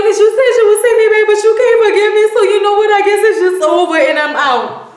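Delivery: mocking girlfriend's exit speech; Bridget's breakup voice. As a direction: rattle it off high like the hurt girlfriend walking out. Bridget voiced leaving James.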